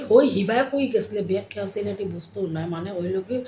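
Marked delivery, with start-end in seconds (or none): 0.1-1.4 Sylheti greeting. Shown as a demonstration. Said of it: "আমরা কই".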